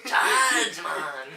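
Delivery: badly faked Mexican accent, slipping into Jamaican; mock Mexican accent. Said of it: "Can you say that more Mexican?".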